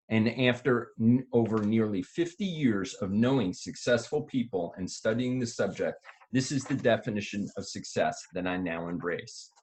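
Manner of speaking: smooth radio announcer read. Acted. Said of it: "He's got his radio voice on".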